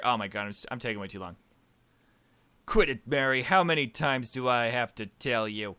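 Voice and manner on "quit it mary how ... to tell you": louder mock-annoyed scold. Player jokingly scolding the game character, louder. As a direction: tell her off in jest.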